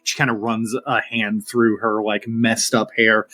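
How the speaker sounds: prim fae trying to regain her composure; flustered fae. Acted. Francesca after the pet chaos.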